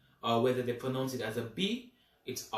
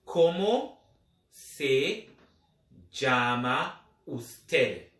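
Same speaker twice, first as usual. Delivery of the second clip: slow polite form; 4 dB louder, much slower than usual. Shown as a demonstration. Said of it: "in the polite way".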